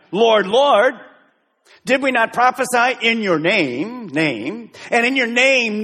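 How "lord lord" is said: "Lord, Lord" higher and louder, each word hit; emphasis on Lord, Lord. Shown as a demonstration. Preacher stressing Jesus' words to the congregation, "Lord, Lord" loud. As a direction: punch both "Lord"s. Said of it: "notice the words again".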